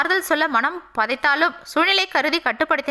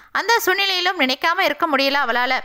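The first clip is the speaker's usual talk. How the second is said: ordinary talk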